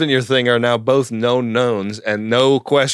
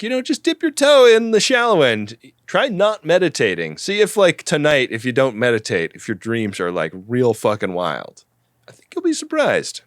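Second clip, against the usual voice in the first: mock pitch. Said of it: "Talaris is trying to pitch".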